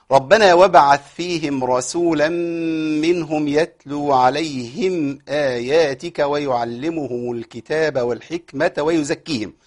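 slow, drawn-out chanted recitation; Quran recitation. Acted. Teacher reciting the verse before explaining stops. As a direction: recite the verse with measured tajweed.

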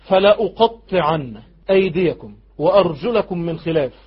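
slow, deliberate recited threat; lightly acted ruler spelling out punishment; Pharaoh's threat. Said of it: "يقول لهم ايه". (تهديد متأنٍ في التلاوة)

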